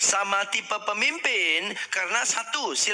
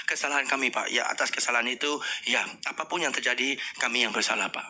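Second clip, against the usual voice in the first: humble apology; 6 semitones lower, faster than usual. Shown as a demonstration. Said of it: "kita hanya minta maaf".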